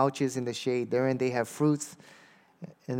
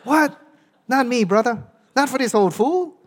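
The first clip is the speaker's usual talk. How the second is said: much higher and louder, laughing through it; laughing church lady; 11 semitones higher, 7 dB louder than usual. Retold or imitated. Church lady laughs off her husband's reward, high and loud. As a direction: scoff it away with a laugh, voice way up. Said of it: "She goes".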